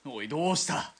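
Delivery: alarmed call. Acted. Reacts to driver's scream.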